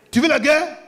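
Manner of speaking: angry husband squaring up to his wife; rising mock challenge. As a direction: push the challenge up a notch. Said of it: "Il dit".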